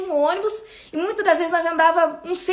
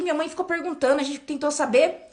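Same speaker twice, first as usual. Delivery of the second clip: ordinary delivery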